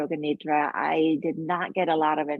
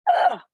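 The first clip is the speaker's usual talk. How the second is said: short, higher-pitched ugh of unease; voiced shudder, "ugh"; 6 dB louder than usual. Shown as a demonstration. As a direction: let out a quick shudder of a groan. Voicing shudder at collective anxiety.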